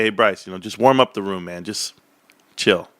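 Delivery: low-pitched, gentle calming down; kindly. Retold or imitated. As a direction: retell a kind, easygoing word of advice. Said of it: "and I kindly say".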